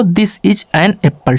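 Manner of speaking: slow, spelled-out answer sentence; clear, deliberate reading for the class; slow dictation. Shown as a demonstration. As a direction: read it slowly so students can write it down. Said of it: "teacher dictates the answer sentence".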